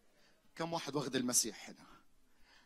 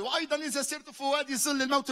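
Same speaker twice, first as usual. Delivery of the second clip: raised high and loud, a preacher leading the crowd; loud declaration; 11 semitones higher, 8 dB louder than usual. Shown as a demonstration. Preacher calls the congregation to say it aloud, loud and high. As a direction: proclaim it out loud to the hall. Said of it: "طب قولها بصوت عالي".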